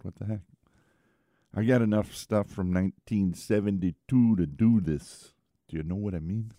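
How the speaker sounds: lightly put-on Chicago accent; a quick, hammy Chicago accent. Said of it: "that's a very bad Chicago accent".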